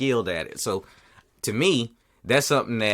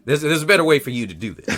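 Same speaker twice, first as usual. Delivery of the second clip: laughing; 4 semitones higher, 4 dB louder than usual. Real, not acted.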